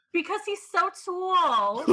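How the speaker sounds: put-on very high, heaviest, thick New York accent. Quote how she says it about Nigel Barker, imitating a very New York accent. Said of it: "she does it with the most New York accent".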